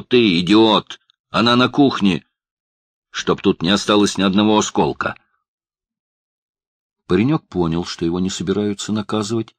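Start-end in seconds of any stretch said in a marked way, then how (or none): 0.0-5.2 angry shouting. Acted. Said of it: "заорал хозяин".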